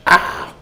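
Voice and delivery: a half-hearted copy of the neighbor's scream; mild imitated scream. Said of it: "I'm trying to copy his scream".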